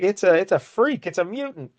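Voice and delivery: high-pitched imitation of panic; mock scared. Retelling the commissioner recoiling from Howard, hammed-up scare. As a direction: act scared, voice jumping up high. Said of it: "he gets all scared".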